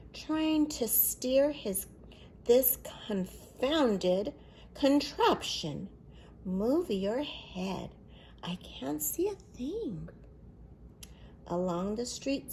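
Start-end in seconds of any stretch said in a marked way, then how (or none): 0.1-10.1 flustered grandpa. Acted.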